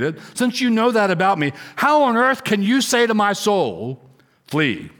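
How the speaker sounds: high, pleading how can you; indignant disbelief. Acted. David protesting to his friends, indignant and high.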